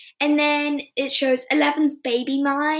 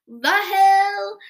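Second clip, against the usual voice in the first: shout; 7 semitones higher, 6 dB louder than usual. Retold or imitated. Erica shouts in the dark mall.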